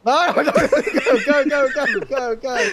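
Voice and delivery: high loud cheering go go; excited urging. Real, not acted. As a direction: cheer him through the lights. Urging him on, shouting.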